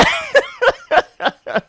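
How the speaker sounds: real high-pitched burst of laughter. Real, not acted. Agent laughing at the insurer's rule. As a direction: cracks up laughing at his own joke.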